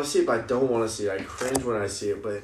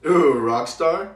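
excited; 5 semitones higher, 8 dB louder, much slower than usual. Real, not acted. Excited guess at the song.

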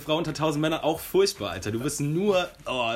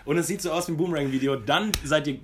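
worked-up rant; 3 dB louder than usual. Real, not acted. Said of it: "Boah, war ich sauer".

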